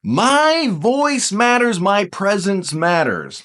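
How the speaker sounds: slow, emphatic "My voice matters"; slow recited affirmation. Shown as a demonstration. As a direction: say it slowly like a mantra. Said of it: "Say it with me".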